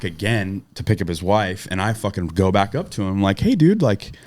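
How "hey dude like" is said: retold threat. Threatening the driver back for his wife, retold angry threat. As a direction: threaten him to his face.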